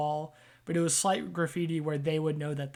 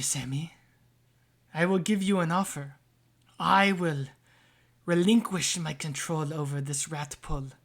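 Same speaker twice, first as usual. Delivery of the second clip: patron voice. Acted. Patron offers a deal.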